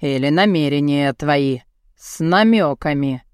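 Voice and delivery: low-voiced man cutting her off; low, final comeback; curt retort. A narrator's reading. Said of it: "Отрезал".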